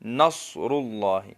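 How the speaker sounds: نصر اللہ with the ر fully sounded; correct pronunciation. Shown as a demonstration. Teacher slowly models نصر اللہ with a clear ر. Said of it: "نص نہیں".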